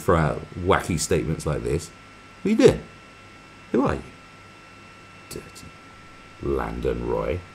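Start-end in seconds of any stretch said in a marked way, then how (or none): 2.4-5.7 mock shriek. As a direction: screech it in mock outrage. Outraged shriek at chat.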